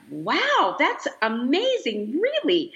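slow "that's amazing", then a high astonished "Really?"; amazed disbelief. Retold or imitated. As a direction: marvel at the surprise, then ask again in disbelief. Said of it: "I was totally taken off guard".

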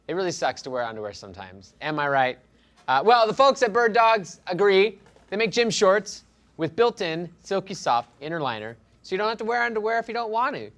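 casual sponsor read. Acted. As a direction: pitch it like an ad.

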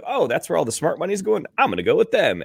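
mock sharp bettor. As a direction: sneer like a gambler spotting easy money. Mocking sharks chasing smart money.

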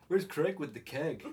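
slow, high, loud American holler; American teenager. Acted. Shouting to Chad for Craig, hammed-up American accent. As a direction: stretch out Craig and keg, American-style. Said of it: "Why do they say Craig like that?".

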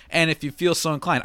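lightly voiced old-time radio host; a touch of vintage announcer; 1930s radio announcer. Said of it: "old-timey nineteen thirties radio announcer voice".

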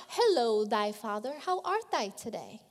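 mock old-fashioned prayer, lightly voiced; a hint of stilted King James prayer; stiff formal prayer. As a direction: parody empty churchy politeness.

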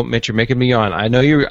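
ordinary talk, nothing marked

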